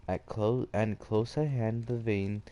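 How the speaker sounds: measured read-aloud storytelling; story narration. A narrator's reading.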